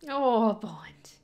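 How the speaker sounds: whispered pity for the dog. Real, not acted. Viewer whispers sadly to the dog on screen. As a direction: breathe it out in sympathy.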